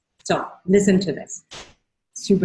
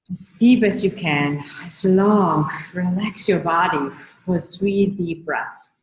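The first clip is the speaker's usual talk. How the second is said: guided breathing. Acted. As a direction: ease them through three breaths. Leads breathing exercise.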